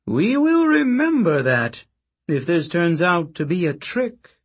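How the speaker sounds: high, slow, menacing promise; veiled threat. Acted. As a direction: let the threat hang in the air. Octavian threatens before the Senate.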